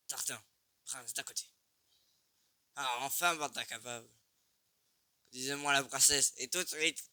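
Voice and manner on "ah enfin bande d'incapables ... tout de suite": hammy villain voice. Pretend. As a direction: command them like a pompous tyrant. Voicing a game character.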